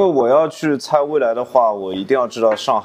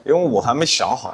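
laughing. Real, not acted. Admits not ready, laughs.

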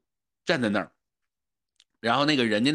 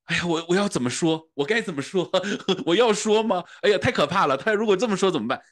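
anxious inner voice; 6 semitones higher than usual. Retold or imitated. Timid child frets over asking the shopkeeper, high anxious inner voice. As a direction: panic inside your head, childlike. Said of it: "内心的戏呢，就是说".

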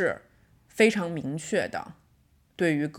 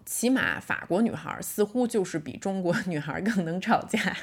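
usual speaking voice

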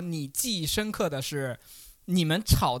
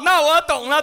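high, loud knowing exclamation; mock realization; 11 semitones higher, 10 dB louder than usual. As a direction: play it like you just caught on, teasing. Teasing, pretending to get the hint. (高声调侃的“懂了”)

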